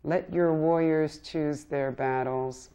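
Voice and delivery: measured, earnest poem recital; poetry reading. Acted. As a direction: read each line like a plea. Poet reads second poem.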